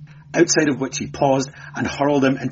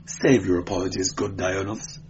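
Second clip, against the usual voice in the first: affected lisp. Acted. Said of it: "he lisped affectedly".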